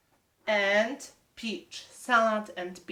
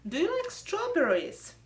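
"Do you like strawberries?" with "you" lifted high; stress on you; 8 semitones higher than usual. Shown as a demonstration. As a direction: lift the word "you" up high and let it fall. Teacher models question for kids.

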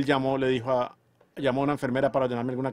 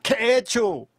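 anguished prayer; 7 semitones higher, 3 dB louder than usual. Retold or imitated. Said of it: "Me senté allí y pensé".

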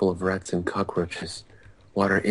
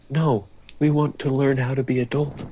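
raised, pleading cry of the Teletubbies; loud cry; 6 semitones higher, 4 dB louder than usual. A narrator's reading. Teletubbies crying out to Snape in protest. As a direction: cry out like whiny toddlers. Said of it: "cried the four Teletubbies".

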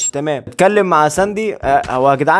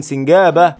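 laughing shout; slower than usual. Real, not acted. Gamer spots the squirrel and shouts it laughing. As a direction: burst out laughing as you shout it.

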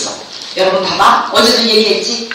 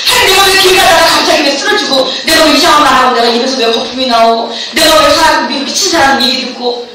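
put-on pleading girl's prayer; 3 semitones higher than usual. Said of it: "간절히 부르짖었어".

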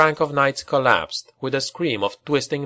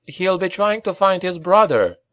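urgent cry; 7 semitones higher than usual. Acted. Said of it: "cried Rat Boy".

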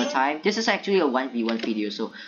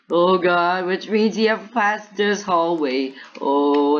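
drawn-out, louder cry of dread; slow wail of alarm; 3 semitones higher, 4 dB louder, slower than usual. Real, not acted. Player realising the killer has passed the hallway, alarmed. Dreads pursuer passing in game.

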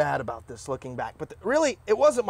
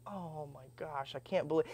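stunned grief; 11 dB quieter than usual. Retold or imitated. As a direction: breathe it out in disbelief. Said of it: "I was like".

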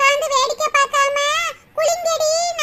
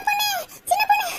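panicked warning; 3 semitones higher than usual. Acted. Panicked warning about snake.

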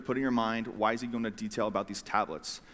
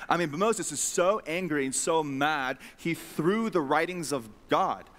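emphatic preaching; 3 semitones higher than usual. Real, not acted. Preacher stressing Moses' anger.

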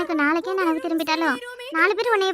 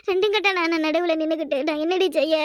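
helpless plea through tears; crying in helpless distress; tearful; 3 semitones lower than usual. Acted. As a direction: end on a sob, worn out. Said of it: "எதுக்கு நீ இப்படி அழுவுற".

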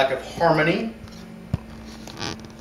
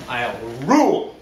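mock dramatic climax; 5 semitones lower than usual. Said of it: "we have a dramatic reading".

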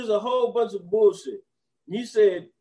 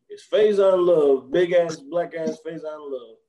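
slow, heavy emphasis on Faizon Love; emphatic intro; 4 dB louder, slower than usual. Real, not acted. Introducing big Faizon Love, slow and emphatic. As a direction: drag the name out for effect.

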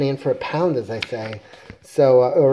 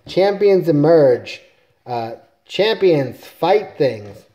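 slow, louder heroic call with long vowels; mock rallying cry; 3 semitones higher, 6 dB louder, much slower than usual. Hero fumbles for a new team catchphrase, slow mock battle shout.

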